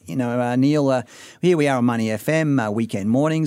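lightly broadened Australian accent; general Australian accent. Shown as a demonstration. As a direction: demonstrate an in-between Australian accent. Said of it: "a bit more Australian like this".

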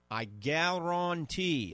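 slow, drawn-out New Orleans "I guarantee"; a touch of Cajun New Orleans accent. Real, not acted. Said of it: "that's my New Orleans accent coming out".

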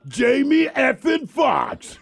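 Jamie effing Foxx shouted slowly, effing punched; emphatic name call. Acted. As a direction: announce "Jamie effing Foxx" loud and slow with a laugh. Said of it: "We should say his name like that more often".

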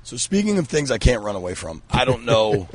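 croaky frog-in-throat voice; hoarse croak, like a frog in the throat; swallowed voice. Real, not acted. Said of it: "you swallowed a frog".

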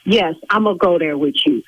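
low, deliberate threat; menacing warning. Real, not acted. Salon owner warns caller threatening her livelihood, low and menacing.

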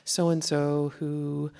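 lightly voiced coaxing mom; a hint of mom voice, lilting up on some phrases. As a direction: put on a mild mom-on-the-phone voice. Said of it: "that mom voice that goes".

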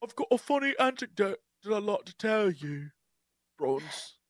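bad British accent; halting, hammed-up British storyteller; Mark. Host imitating a hero starting an anecdote, bad British accent. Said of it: "expect Mark to be like".

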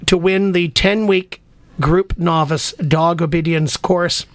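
upbeat announcer pitch for callers; radio contest promo. Acted. Host reads radio contest promo.

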